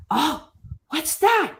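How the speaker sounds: put-on high, drawn-out wondering kid voice; slow, high-pitched playful wonder; curious little kid. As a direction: imitate a child's wide-eyed discovery. Voicing a delighted curious little kid.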